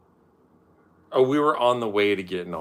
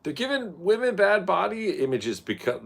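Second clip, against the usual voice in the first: mock preachy voice; 12 semitones higher, 3 dB louder than usual. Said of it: "were always like".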